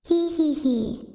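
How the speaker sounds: slow mock villain giggle; evil giggle. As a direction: giggle like a little cartoon villain, drawn out. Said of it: "an impression of evil".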